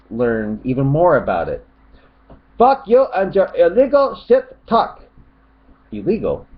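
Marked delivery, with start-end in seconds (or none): 2.6-5.0 high, put-on cursing outburst; mock angry shout. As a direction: curse in a high mock yell. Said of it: "he starts getting really angry here".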